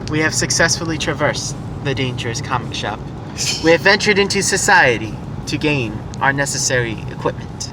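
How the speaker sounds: grand mock-heroic announcer; mock epic narration. Mock heroic quest report.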